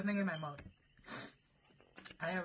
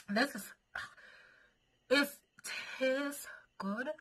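whispering; 6 semitones higher, slower than usual. Real, not acted. Whispered aside while burning.

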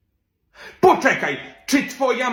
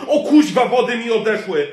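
startled cry; 3 semitones higher, 5 dB louder than usual. Acted. Pregnant teacher whose waters break in class, alarmed. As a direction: jolt as the contractions start.

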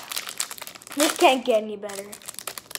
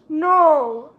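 surprised no; 3 semitones higher, 8 dB louder than usual. Real, not acted. Shocked reaction to card pull.

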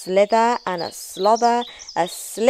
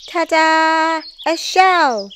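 high, proud fanfare; triumphant reveal; 9 semitones higher, 4 dB louder, slower than usual. A narrator's reading. Norman revealing his new shell, triumphant. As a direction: present it with a flourish.

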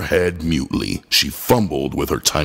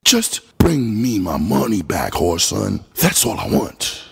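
begging. Acted. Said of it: "his voice changed and he begged".

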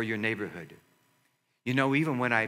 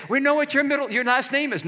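a hint of teasing teammates, higher; ribbing tone, mildly raised; imitating teammates; 7 dB louder than usual. Teammates teasing the pastor about his name, lightly voiced. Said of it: "I heard it the other day".

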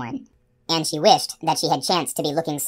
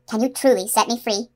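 hopeful plea; 6 semitones higher than usual. A narrator's reading. Captive unicorn asks rescuer.

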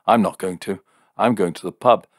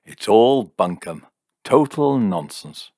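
higher, crowing mockery; gloating; 3 semitones higher, 4 dB louder than usual. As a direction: crow over the fool you made. Jim gloats over his trick.

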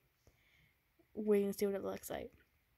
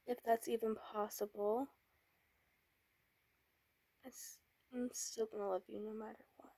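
put-on tender boyfriend; 3 semitones higher than usual. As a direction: coax her gently, afraid of what's coming. Boyfriend reassures pregnant girlfriend.

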